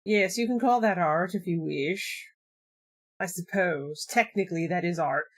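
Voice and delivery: a hint of a sniffy art critic; snooty elitist. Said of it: "He's one of these elitist assholes".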